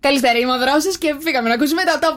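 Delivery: lightly imitated radio host with American-tinged English; mock radio intro with a touch of American accent; Drosos's American-style accent. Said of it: "Έχεις μια διαφορετική προφορά".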